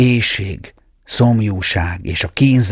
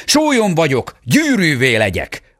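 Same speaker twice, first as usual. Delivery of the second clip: higher cry to the princess; exclamation; 7 semitones higher than usual. A narrator's reading. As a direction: cry the spell out landing at her feet. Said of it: "elkiáltotta magát". (magasabb, kiáltott varázsszó)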